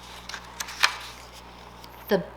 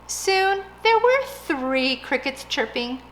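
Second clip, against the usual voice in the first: plain reading voice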